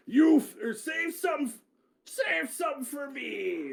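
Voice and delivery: a retry at the warrior woman's cry; fumbled character voice. Acted. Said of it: "I don't know how the fuck to do that voice".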